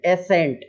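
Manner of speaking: एसेंट with the S voiced as a separate "e-s" syllable; wrong reading shown. Shown as a demonstration. Teacher shows pupils a wrong reading, a misread एसेंट. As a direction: sound out एसेंट the wrong way, "e-sent". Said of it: "ऐसा नहीं बोलना है".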